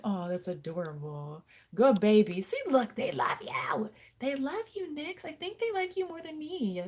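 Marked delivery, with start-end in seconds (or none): 1.7-2.9 high cooing praise to the pet. Real, not acted. Owner praising her lizard, high baby talk. 3.0-3.9 breathy whispered aside to the pet. Real, not acted. Owner whispering sweetly to her pet lizard. 4.2-6.8 high cooing praise to the pet. Real, not acted. Owner praising her lizard, high baby talk.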